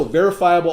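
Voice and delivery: "verifiable" given a firm extra push; stress on verifiable. Shown as a demonstration. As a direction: lean on "verifiable" so every syllable lands. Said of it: "I'm gonna stress the word verifiable".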